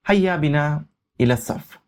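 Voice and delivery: the Arabic said slowly and deliberately, each word set apart; slow demo reading. Shown as a demonstration. Teacher reading Arabic to Urdu learners, slow and clear. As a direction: read it out word by word for learners to copy. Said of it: "teacher reads Arabic line slowly".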